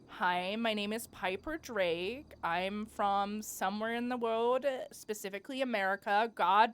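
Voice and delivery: put-on a shaky stab at an American accent; attempted American accent. Piper Drake introducing herself in a bad American accent. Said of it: "I can't do American".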